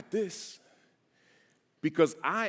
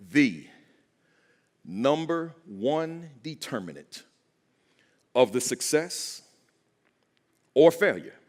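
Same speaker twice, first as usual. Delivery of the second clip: call to repeat; 3 dB louder, slower than usual. Shown as a demonstration. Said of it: "I just want you to say after me".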